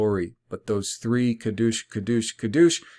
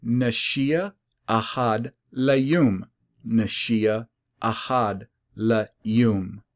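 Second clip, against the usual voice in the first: "Nashia Ahad Layum" slowly, word by word; deliberate emphatic repetition; much slower than usual. Retold or imitated. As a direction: recite "Nashia Ahad Layum" slowly, spacing each word to drive it home. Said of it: "to drive it home and to emphasize it".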